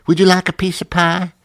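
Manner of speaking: high, gushing mock Southern server; phony dramatic pleasant. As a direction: lay on fake friendliness thick. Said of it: "phony, dramatic pleasant".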